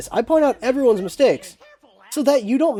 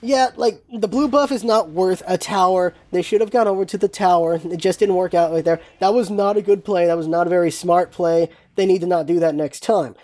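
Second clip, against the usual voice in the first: calmer; 3 semitones lower than usual. Shown as a demonstration. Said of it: "the better way to do it is".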